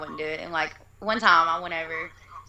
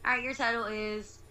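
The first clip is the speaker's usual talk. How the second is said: higher, friendly cashier voice; smiling service voice; 4 semitones higher, 4 dB quieter than usual. Retold or imitated. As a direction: read out the total with a smile. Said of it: "I'm smiling".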